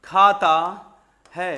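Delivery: loud, slow, word by word; teacher dictating a simple sentence for students to copy; slow dictation. Shown as a demonstration. Teacher writing an example on the board, dictating slowly. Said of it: "बात समझना".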